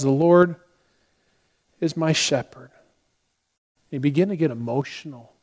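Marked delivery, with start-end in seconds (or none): 0.0-2.7 unhurried, simple reading with a long pause midway; calm recitation. Retold or imitated. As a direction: say it calmly, like a shy student. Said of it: "very calmly just says".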